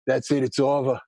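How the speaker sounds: mock the cousin giving up on the news; gloomy cousin. Cousin on the phone giving up, low and resigned. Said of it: "he's like".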